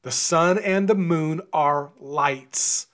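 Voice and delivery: slow, deliberate statement landing on "lights"; stress on LIGHTS. Real, not acted. Preacher explaining Genesis to listeners, emphasizing the word "lights". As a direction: spell it out slowly, weight on final "lights". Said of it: "I am emphasizing the word light".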